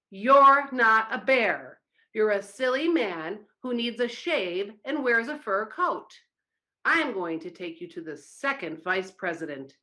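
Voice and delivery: the third vice president scolds the bear, angrier; madder. Acted. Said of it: "was even madder".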